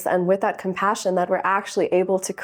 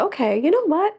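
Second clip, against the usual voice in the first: inner voice; 10 semitones higher, much faster than usual. Retold or imitated. Imagined self-talk, high far.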